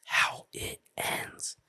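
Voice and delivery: slow, hushed whisper; very slow, secretive whisper. Shown as a demonstration. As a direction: whisper the title, drawing out each word. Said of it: "I'm gonna whisper it".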